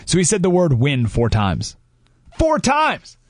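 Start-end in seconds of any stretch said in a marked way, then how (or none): 2.4-3.2 emphatic exclamation. Real, not acted. Stressing how often he said win.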